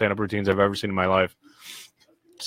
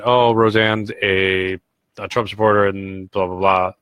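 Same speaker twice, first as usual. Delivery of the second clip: mocking the media. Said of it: "the media itself, saying that".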